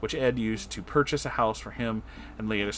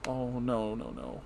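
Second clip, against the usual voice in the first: much softer, fading oh no; real sad dismay; 9 dB quieter, slower than usual. Real, not acted. Host hearing of grandma's death, soft sad fade. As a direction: let it drop away in grief.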